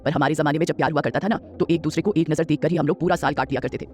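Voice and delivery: a hint of a gentle old grandmother asking.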